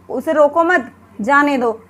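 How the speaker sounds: "उसे रोको मत" as one phrase, gap, then "जाने दो"; pause after मत. Shown as a demonstration. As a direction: break the sentence after मत. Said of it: "हम मत के बाद विराम ले रहे हैं".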